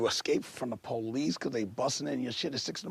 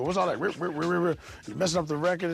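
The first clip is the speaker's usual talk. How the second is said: higher mock complaint with spoken scratch noises; imitated puzzled complainer; 4 semitones higher, faster than usual. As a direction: mimic a baffled listener objecting to scratching. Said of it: "I've seen people go".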